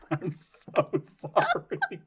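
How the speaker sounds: very slow, words squeezed out through laughter; laughing apology. Real, not acted. Guest apologising to the others for cracking up, laughing. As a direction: apologise while helpless with laughter.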